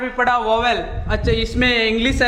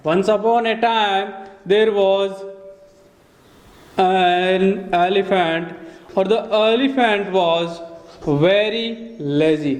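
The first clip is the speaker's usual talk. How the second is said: slow story read of "Once upon a time"; storybook reading; 2 semitones lower, much slower than usual. Shown as a demonstration. Teacher reading a children's story line, slow and drawn out. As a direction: drag it out like a fairy tale. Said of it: "जैसे मैंने बोल दिया".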